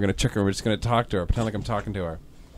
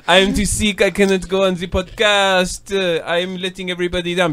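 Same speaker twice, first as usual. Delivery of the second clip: mock French accent; 4 semitones higher than usual. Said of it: "she has a French accent now".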